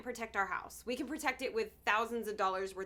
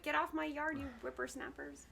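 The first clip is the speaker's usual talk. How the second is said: put-on cranky old man yelling; grumpy get-off-my-lawn geezer; shouting at trespasser; 4 semitones higher, 5 dB quieter than usual. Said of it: "I sound like".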